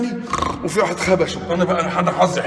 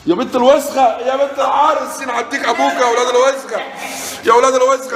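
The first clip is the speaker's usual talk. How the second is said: excited yelling; 6 semitones higher, 3 dB louder than usual. Real, not acted. Excited cursing on seeing citadel.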